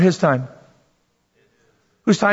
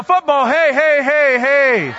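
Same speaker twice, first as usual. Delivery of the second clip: mock cheer; 6 semitones higher, slower than usual.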